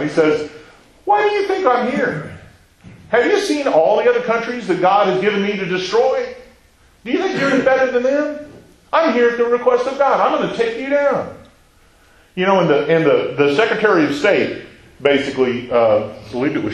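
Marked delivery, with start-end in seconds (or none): 1.1-11.3 higher, mock hollering threat; hollering general. Assyrian general threatens the city, mock hollering. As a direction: call down from the wall, menacing. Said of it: "He starts hollering at them".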